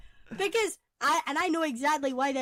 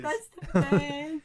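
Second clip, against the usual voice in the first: laughing; much slower than usual. Real, not acted. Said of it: "It is".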